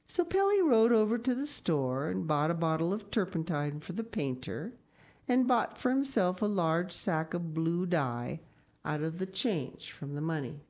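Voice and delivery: bright, lifted read-aloud storytelling; storybook narration. A narrator's reading. Reading a picture book aloud to children, lifted storytelling. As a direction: tell it like a bedtime story to the kids.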